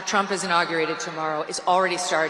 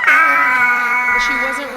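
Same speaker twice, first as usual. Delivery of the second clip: laughing through words; 13 dB louder, much slower than usual. Real, not acted. Laughing after preacher bit.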